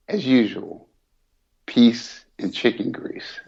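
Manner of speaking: long hanging pauses, slow sign-off; milk each pause before the catchphrase; dramatic pauses. Acted. Signing off to listeners with slow dramatic pauses. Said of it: "What's up with the dramatic pauses?".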